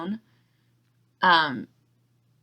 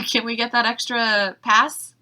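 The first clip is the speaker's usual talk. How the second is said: laughing request; 5 semitones higher, 4 dB louder than usual. Retold or imitated. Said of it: "I was just, like, waiting for you to text and be like".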